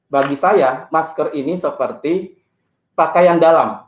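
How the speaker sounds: muffled behind a mask; through a face mask. Real, not acted. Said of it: "berat Pak sambil ngomong pakai, eh, masker".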